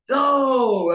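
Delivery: high shouted Yo across the room; excited shout of Yo to a friend arriving; calling out. Retold or imitated. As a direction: hail her from the stage. Calling to her from stage.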